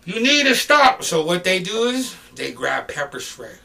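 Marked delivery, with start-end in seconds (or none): 0.0-1.1 slow, high, loud command; retold police order. Police trying to stop a brawl, loud order. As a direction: order the crowd, stretching it out.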